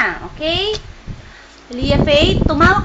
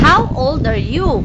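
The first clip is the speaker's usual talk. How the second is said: slow repeated question; 2 semitones lower, slower than usual. Real, not acted. Parent repeats the question for a toddler, slow and drawn out. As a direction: ask it slowly, stretching the words.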